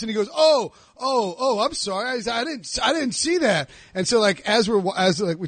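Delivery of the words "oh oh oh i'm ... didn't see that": raised-pitch mock apology; stumbling, higher-voiced sorry; imitated apology. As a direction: act out a flustered golfer backing down. Imitating the golfer's flustered apology.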